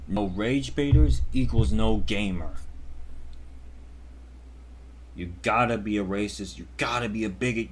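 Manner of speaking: a hint of a preachy sarcastic scold; lightly voiced smug lecture; sarcastic lecture in the rage baiter's voice, lightly done; mock lecture. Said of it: "Clearly you guys knew I was fucking around".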